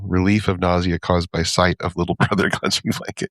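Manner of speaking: even, unconversational label reading; clipped descriptor. Shown as a demonstration. Quoting a comic line like a product label, clipped descriptor. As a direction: read it like the side of a box, laugh slipping in. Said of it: "it's got that clipped descriptor thing where it's not, it's not conversational".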